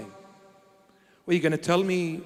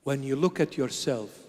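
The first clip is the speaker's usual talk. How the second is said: voice of the Lord; 6 semitones lower, 6 dB quieter than usual. Retold or imitated. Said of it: "He said".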